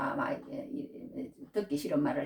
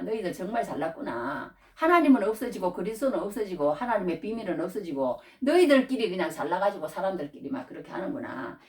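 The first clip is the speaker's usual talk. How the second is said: sarcasm; 2 semitones higher than usual. Retold or imitated. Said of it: "괜히 비꼬듯이 그래요".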